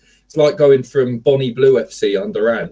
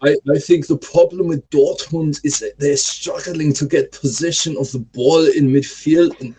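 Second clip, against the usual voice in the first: put-on German accent. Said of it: "really good German accent".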